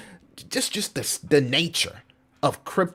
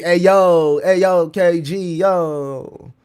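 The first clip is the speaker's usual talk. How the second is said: calling out; 5 semitones higher, 8 dB louder, much slower than usual. Real, not acted. Calling out to viewer KG.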